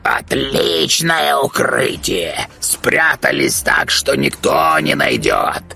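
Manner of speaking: slow, sarcastic bird voice; drawn-out raven taunt; mocking raven. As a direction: jeer at them from above. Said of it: "Издевался над их головами ворон".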